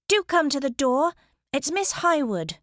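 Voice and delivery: shouting to carry. A narrator's reading. Minerva announces herself at the lord's door, shouting. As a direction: project it through a thick door. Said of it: "hoping her voice would carry".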